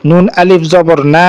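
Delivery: level, sustained "না" at the end; elongated final vowel. Shown as a demonstration. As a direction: spell it out, then hold the final "না" long. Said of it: "নাকে খালি টানলাম".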